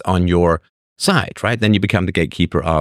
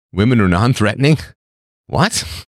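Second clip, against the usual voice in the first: incredulous. Real, not acted. Disbelief at a viewer's claim.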